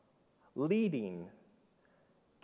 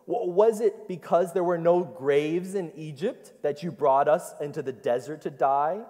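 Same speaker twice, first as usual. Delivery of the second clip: mock-indignant Israelites, a touch louder; sarcastic; 4 semitones higher, 4 dB louder than usual. Preacher voicing Israel mocking Moses, sarcastic. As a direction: needle Moses with biting sarcasm.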